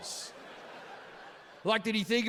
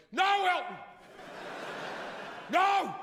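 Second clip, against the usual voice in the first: anguished cry; 11 semitones higher than usual. Retold or imitated. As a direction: cry out no in despair. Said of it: "the kid just lost his mind and went".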